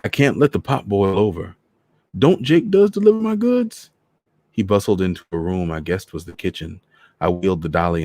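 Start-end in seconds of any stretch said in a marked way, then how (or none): 0.0-3.9 put-on high, loud old Trinidadian voice; an old man from Trinidad hurrying her in. Voices Mister Morris.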